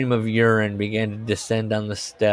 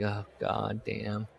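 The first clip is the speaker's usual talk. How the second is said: muttered curse; 12 dB quieter, slower than usual. Retold or imitated. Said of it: "I was like".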